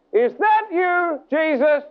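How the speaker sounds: slow, high-pitched cry of doubt; acted challenge to an unseen voice; challenging shout. Man challenging the voice, retold.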